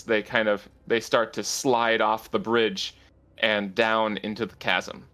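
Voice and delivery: steady scene-setting narration; fantasy narrator describing the collapse; game master narration. A narrator's reading. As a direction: paint the scene for the players.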